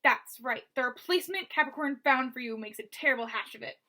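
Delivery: lightly voiced rasping thug; rasping villain. Basta taunting Mo through the wall, light rasping menace. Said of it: "the rasping voice again".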